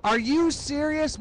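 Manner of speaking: high, slow, incredulous outburst; shocked disbelief. Retold or imitated. Son learns who his father is, high incredulous cry. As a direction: stretch out each word in stunned outrage.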